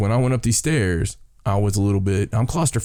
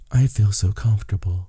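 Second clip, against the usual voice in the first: light British-accented impression of wife. Husband imitating his wife in old haunted places, British accent. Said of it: "the terrible British accent".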